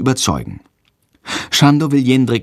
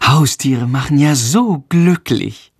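slow, biting sarcasm; venomous sarcasm; 4 semitones higher, slower than usual. Acted. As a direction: needle him with fake sweetness. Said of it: "giftet sie ihn an".

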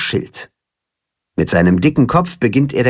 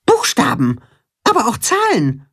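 mildly raised mole voice calling; 11 semitones higher than usual. A narrator's reading. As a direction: call it back through the gate. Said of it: "ruft der Maulwurf".

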